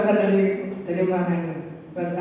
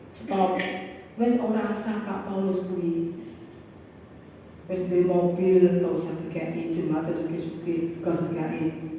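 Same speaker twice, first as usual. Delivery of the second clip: hushed dismissal; 5 dB quieter than usual. Retold or imitated. Preacher voicing those withholding his share of blessing, hushed dismissal. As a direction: wave him off under your breath.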